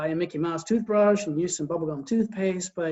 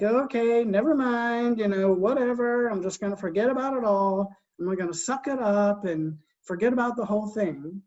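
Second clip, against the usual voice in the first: passive giving up; 2 semitones higher than usual. Retold or imitated. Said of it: "I decided, like".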